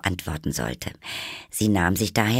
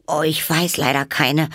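high, louder flustered cry; dismayed; 10 semitones higher, 6 dB louder than usual. A narrator's reading. Alice is asked for a story, dismayed. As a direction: exclaim in consternation. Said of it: "rief Alice ganz bestürzt".

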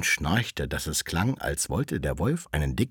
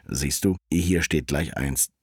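lightly voiced wolf, low and slow; a slow, lowered voice for the wolf; sly wolf; 4 semitones lower than usual. Wolf showing Rotkäppchen the herbs, lightly lowered and slow.

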